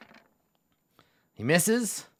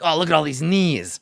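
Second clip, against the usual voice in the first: goblin voice; 5 semitones higher, 6 dB louder than usual. Acted. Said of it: "He's like".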